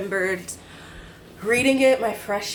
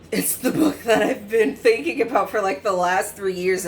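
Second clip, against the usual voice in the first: high, laughing thrilled exclamation; light up as you find it; excited discovery; 3 semitones higher, 4 dB louder than usual. Retold or imitated. Finding a longed-for book in the library, thrilled. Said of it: "and I was".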